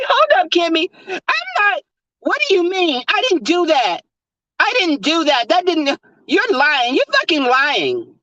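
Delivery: put-on high indignant Valley girl denial. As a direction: play the wounded innocent white girl. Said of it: "That's when white girl come out".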